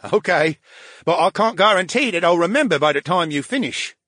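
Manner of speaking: high, loud, complaining sidekick voice; a needy brain in a tank griping at his friend; whiny brain voice. Acted. AB replies.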